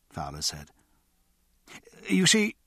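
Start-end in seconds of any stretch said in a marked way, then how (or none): 2.1-2.6 hesitant, high-pitched opening that trails off; faltering. A narrator's reading. Embarrassed man begins confessing to his friend, faltering. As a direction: start high and awkward, then falter. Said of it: "and then faltered".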